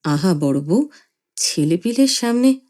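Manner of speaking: mild pained plea; husband hushing his wife; gentle hurt rebuke; sad. Acted. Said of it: "বাবা দুঃখিত স্বরে বললেন".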